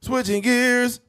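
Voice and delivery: high, slow, stretched-out call; drawn-out segue announcement. Real, not acted. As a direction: sing out the topic change. Announces a change of topic.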